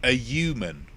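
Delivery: "A human" with no H, as "a yuman"; dropped H. Shown as a demonstration. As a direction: drop the H of human entirely. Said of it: "with the H being omitted entirely".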